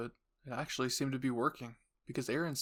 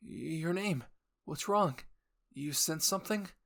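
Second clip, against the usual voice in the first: worried question; 4 semitones higher, slower than usual. Acted. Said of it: "Armin asked".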